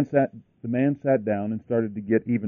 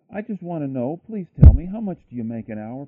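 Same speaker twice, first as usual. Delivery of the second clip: higher pitch, a burst on the plea; pleading; 3 semitones higher, 7 dB louder than usual. A narrator's reading. Little boy begging his father to tell him, pleading. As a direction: narrate a small boy begging for an answer. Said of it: "pleaded the little boy".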